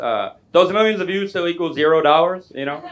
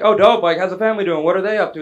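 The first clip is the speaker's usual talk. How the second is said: higher and louder, gushing follow-up questions; over-eager; 5 semitones higher, 5 dB louder than usual. Retold or imitated. Comedian peppering his friend with questions, over-eager. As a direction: pounce on every answer with enthusiasm.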